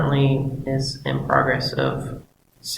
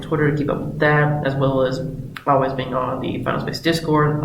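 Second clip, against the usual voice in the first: sick voice. Real, not acted. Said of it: "both my voice 'cause I'm sick".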